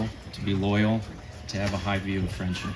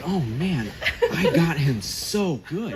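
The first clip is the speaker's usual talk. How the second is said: higher, laughing gleeful aside; gloating laugh; 7 semitones higher, slower than usual. Retold or imitated. Older brother gloats over fooling his brother, laughing. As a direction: chuckle at pulling off the prank. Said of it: "it was just like".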